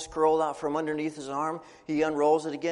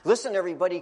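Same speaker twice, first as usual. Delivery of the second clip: calling out; 4 semitones higher, 5 dB louder, much faster than usual. Acted. Dad calls family together.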